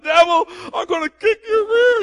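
high, loud hammed-up battle yell; screaming at the devil. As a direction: holler it like a mock warrior. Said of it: "he's screaming out".

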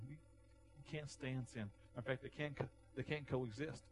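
hushed pulpit aside. Real, not acted. Preacher drops to hushed.

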